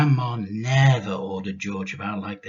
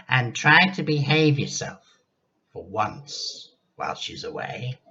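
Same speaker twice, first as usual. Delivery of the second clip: grandma's voice; 4 semitones higher, 3 dB louder than usual. Acted.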